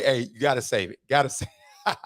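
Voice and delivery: words broken by a laugh; laughing through it. Real, not acted. Laughing to viewers while quoting the advice. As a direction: giggle as you quote.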